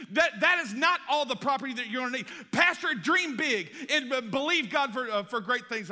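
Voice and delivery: high, loud, proclaiming with conviction; prophetic declaration. Retold or imitated. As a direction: declare it over the pastor like a prophet. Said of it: "She said".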